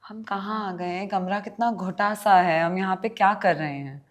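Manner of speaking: quick, natural line reading; natural delivery. Shown as a demonstration. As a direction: say it naturally, like a trained actor. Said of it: "But now if you say the same line".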